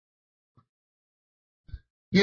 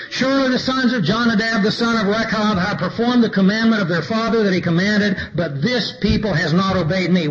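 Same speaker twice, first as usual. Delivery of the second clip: scripture reading, rising; 3 semitones higher than usual. Acted. Preacher reading the Lord's appeal to his people, raised and pleading. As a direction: lift it up and plead it.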